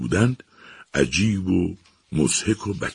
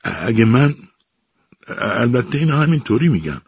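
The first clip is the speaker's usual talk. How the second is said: stammering; 4 semitones higher than usual. Acted. Professor stammering to the captain, halting and nervous. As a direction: stumble nervously over each start. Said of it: "ایزمانی با لکنت گفت".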